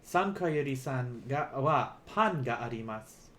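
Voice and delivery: slow, clear teaching delivery; careful unhurried voice. Shown as a demonstration. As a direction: spell it out slowly for learners. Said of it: "let me say this slowly".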